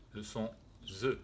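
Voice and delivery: « ze » bien voisé, z sonore; détacher « ze » avec un z vibrant. Shown as a demonstration. (« le son ze », z sonore articulé)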